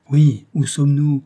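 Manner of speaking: impatient insistence. A narrator's reading. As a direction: push the boy for an answer. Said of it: "répétai-je avec impatience".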